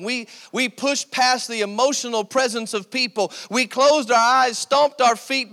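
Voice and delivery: impassioned preaching. Real, not acted. Preacher recalling worship to the congregation, impassioned preaching. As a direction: preach it with mounting fervor.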